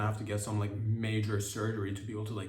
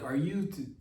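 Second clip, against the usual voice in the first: mock pun to himself; 4 semitones higher, slower than usual. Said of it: "is what I said to myself".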